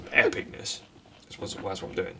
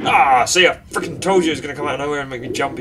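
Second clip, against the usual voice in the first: startled outburst; 4 semitones higher, 9 dB louder, faster than usual. Real, not acted. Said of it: "even though I didn't visibly jump".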